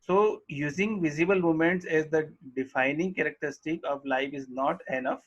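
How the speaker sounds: reading the English line very slowly; slow textbook reading. Acted. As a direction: dictate each word to the class. Reads textbook line aloud slowly. (पाठ्यपुस्तक से धीरे-धीरे पढ़ना)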